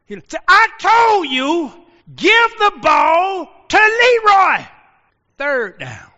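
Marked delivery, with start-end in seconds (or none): 0.5-4.6 slow, high, loud furious yell; mad coach shout. Retold or imitated. Coach fuming at his quarterback after another lost play, slow high shout. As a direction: drag out each word in a rage. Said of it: "Coach just mad by now".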